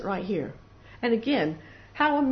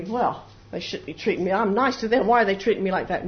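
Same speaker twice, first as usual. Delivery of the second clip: louder acted grievance, speeding up at the end; mock self-righteous huff; indignant complaint; 5 dB louder than usual. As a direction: protest unfair treatment.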